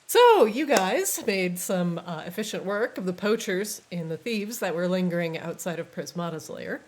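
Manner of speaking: measured game master recap; GM narration. Acted. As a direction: set the scene for the players.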